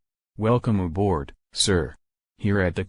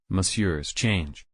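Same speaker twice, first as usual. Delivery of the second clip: slow, soft mock French accent; hammed-up French accent offering change; 4 dB quieter, slower than usual. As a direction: play a waiter in French accent. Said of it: "Talking in a French accent".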